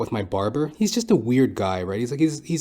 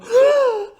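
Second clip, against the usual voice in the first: high loud mock gasp of horror; a shrill staged gasp; shocked gasp; 8 dB louder than usual. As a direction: gasp like a scandalised lady. Disgusted women in parlor.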